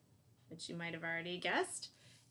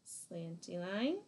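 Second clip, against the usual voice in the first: slow demo; 2 semitones lower, slower than usual. Shown as a demonstration. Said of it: "Gonna do one more of each".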